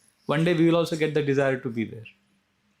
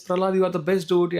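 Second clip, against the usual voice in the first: quick, higher-pitched glad acclaim; happy praise; 4 semitones higher, faster than usual. Retold or imitated. Narad Muni runs up to his disciple, happy praise. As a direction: hail him in a happy rush. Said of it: "Narad Muni becomes so happy".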